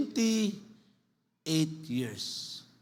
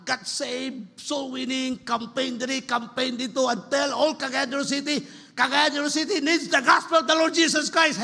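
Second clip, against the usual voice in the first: preaching that climbs higher as it goes; mild retold shouting; 4 semitones higher than usual. Preacher recalls preaching to the children, mildly raised shout. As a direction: re-enact campaign preaching, building gradually. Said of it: "shouting them, preaching them sa ila".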